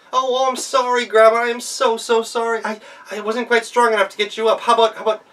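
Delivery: high, loud fake apology; girl faking remorse to the fallen wolf; mock-sorry girl. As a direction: pretend to be sorry, sweetly.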